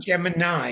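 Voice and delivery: Gemini, rhyming its end with "sigh"; correct pronunciation of Gemini. Shown as a demonstration. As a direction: Gemini ending in a long "eye". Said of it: "is how it's pronounced".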